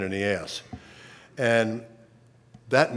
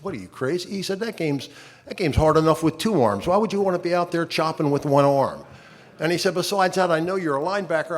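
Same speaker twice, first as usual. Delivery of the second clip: put-on blunt old volunteer; 5 semitones higher than usual. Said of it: "He says".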